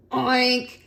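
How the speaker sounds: short, snorty oink; pig's oink. Acted. Reader answers what the pig says, oink. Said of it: "What did the pig say?".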